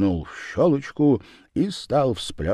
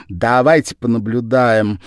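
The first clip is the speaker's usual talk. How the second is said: Lizzie coaxing; 3 semitones higher, 7 dB louder than usual. A narrator's reading. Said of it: "говорила она".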